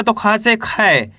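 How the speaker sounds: खा से खी slowly, long ee in खी; slow demo. Shown as a demonstration. Teacher slowly showing students खा becoming खी. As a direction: spell it out for pupils. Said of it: "आई की मात्रा है".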